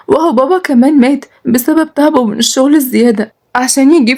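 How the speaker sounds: tearful. Acted. Nada answers her sister about her illness, tearful. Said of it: "ردت ندى بدموع".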